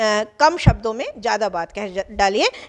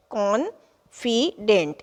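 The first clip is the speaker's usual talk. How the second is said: slow, split कॉन्फिडेंट into कॉन-फी-डेंट; syllable by syllable; much slower than usual. Shown as a demonstration. Teacher sounding out the word for students, slowly. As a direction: lay out each syllable of कॉन्फिडेंट. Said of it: "ये जो कॉन है, फी है, ये डेंट है".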